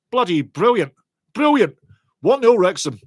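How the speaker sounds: gloating, sarcastic praise. Real, not acted. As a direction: rub it in, cheeky. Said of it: "I'm such a sarcastic bugger today".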